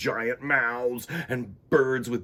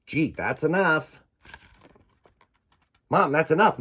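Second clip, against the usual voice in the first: put-on kid protesting; 6 semitones higher, 6 dB louder than usual.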